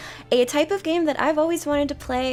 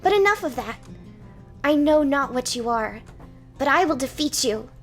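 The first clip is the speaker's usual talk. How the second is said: defiant knight; 2 semitones higher, 5 dB louder than usual. Acted. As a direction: vow to defeat the monster. Knight declares battle.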